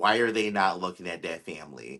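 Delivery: ordinary talk, nothing marked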